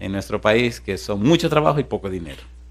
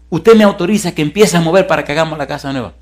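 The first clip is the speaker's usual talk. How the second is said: higher, eager request; mildly hammed-up eagerness, pitched up; retold excitement; 4 semitones higher, 4 dB louder, faster than usual. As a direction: imitate an excited man asking permission. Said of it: "me dice él emocionado".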